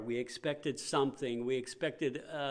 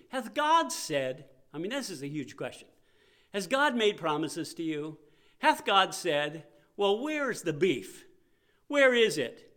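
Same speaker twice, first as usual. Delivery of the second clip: devil taunting Adam and Eve, rising higher and louder; sly tempting devil; 3 semitones higher, 3 dB louder than usual. Retold or imitated. Preacher voicing the devil taunting Adam and Eve, mock sneer. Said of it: "He told Adam and Eve".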